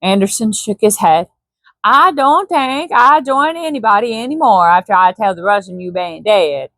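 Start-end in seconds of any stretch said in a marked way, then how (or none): 1.8-6.7 put-on resigned Swede in accent; light Swedish accent, resigned. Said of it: "didn't do his accent".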